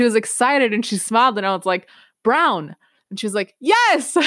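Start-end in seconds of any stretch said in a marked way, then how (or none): 2.2-2.8 proud first word. Retold or imitated. Child's first English word, proud. 3.6-4.2 high, bright cheer of delight; teacher cheering her pupil's first word, excited; excited yes. Retold or imitated. Teacher cheering child's right answer.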